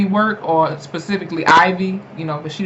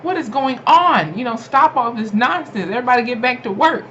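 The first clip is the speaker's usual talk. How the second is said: bossy manager; 5 semitones higher than usual. Retold or imitated. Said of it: "she was like".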